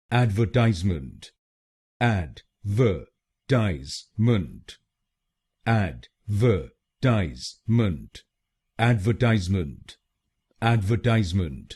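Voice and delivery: एडवर्टाइजमेंट slowly as AD-ver-TIZE-ment; American pronunciation. Shown as a demonstration. Teacher repeating the American word for learners, slow and clear. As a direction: say एडवर्टाइजमेंट with "add" and "tize", some takes drawn out. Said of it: "तो बनेगा एडवर्टाइजमेंट".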